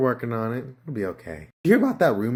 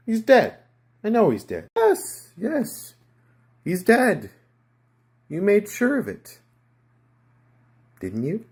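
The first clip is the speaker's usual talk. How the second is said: nervous insistence; 8 semitones higher, 5 dB louder than usual. Acted.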